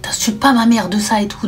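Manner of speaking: a touch of annoyed mother, half whispered; hushed scolding. Retold or imitated. Annoyed mother hushing her son so grandmother won't hear. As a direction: mildly scold him under your breath. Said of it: "La maman était énervée".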